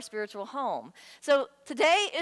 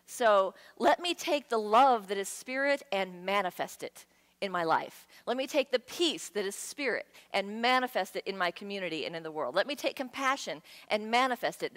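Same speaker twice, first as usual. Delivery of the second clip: earnest prayer. Retold or imitated. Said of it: "So what we're praying for is".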